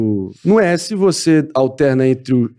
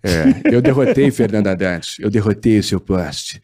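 Doria impression; 5 semitones lower than usual. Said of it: "Aí na hora que o Dória começa a se exaltar".

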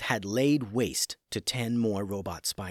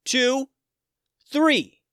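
each number higher and louder, building to THREE; yelled countdown; 7 dB louder, much slower than usual. Acted. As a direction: count it down, shouting. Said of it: "Tim yelled out".

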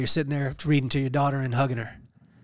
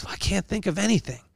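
a character's voice; 5 semitones higher, 5 dB quieter than usual. Retold or imitated. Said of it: "He said".

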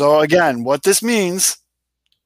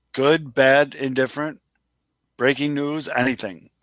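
super serious voice. Acted. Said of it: "Do, like, a super serious voice".

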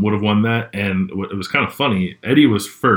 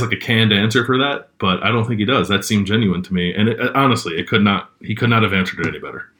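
cigarette in mouth. Real, not acted. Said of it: "let me light this cigarette".

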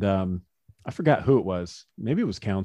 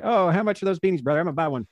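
Josh Hader impression; 6 semitones higher, faster than usual. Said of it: "your Josh Hader impression".

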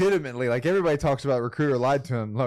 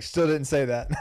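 laughing echo; 4 semitones higher, slower than usual. Real, not acted. Listener echoing, laughing.

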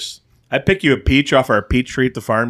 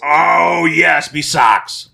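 excited shout; 5 semitones higher, 3 dB louder, much slower than usual. Real, not acted. Reacting to the flavour pick.

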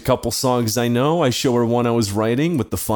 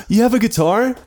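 higher-pitched imitation of her asking; lightly put-on higher voice for her; 10 semitones higher than usual. Girl asking about his guitar, imitated higher. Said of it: "and she goes".

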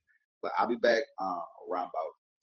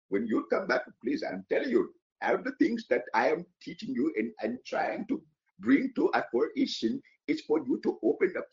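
high, bright-eyed preacher voice, pitched way up; put-on high voice; 9 semitones higher, 3 dB louder than usual. Talking to viewers in a high put-on voice. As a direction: crack their noggin in a high put-on voice. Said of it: "If I talk like that".

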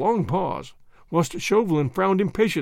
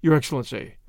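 obsequious. Acted. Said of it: "he replied obsequiously".

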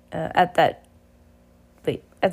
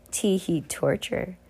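sinister giggle; 2 semitones higher, 5 dB quieter, slower than usual. Acted. Villain giggle, quiet.

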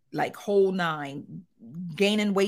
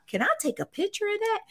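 quoting the doctor; 14 semitones higher, faster than usual. Retold or imitated. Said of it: "They talk about".

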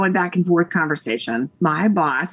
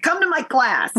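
retold eager invitation; 7 semitones higher than usual. Retold cheerful invitation from friend.

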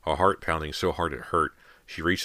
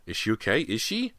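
frightened; 7 semitones higher than usual. Acted. Girls frightened.

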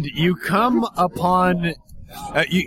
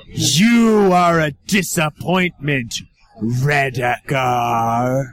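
loom over him with contempt; menacing monster voice; 5 semitones lower than usual. Acted. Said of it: "as a voice says".

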